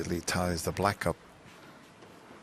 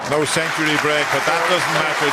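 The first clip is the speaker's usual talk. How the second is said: loud, high, excited commentary; 7 semitones higher, 9 dB louder than usual. Real, not acted. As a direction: lift it up as the frame is won. Frame won, commentator lifts voice.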